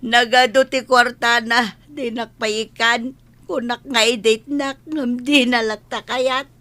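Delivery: acted weeping between phrases; tearful complaint. Wife tells Kapitan about the money, tearful. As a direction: sob lightly while telling the grievance.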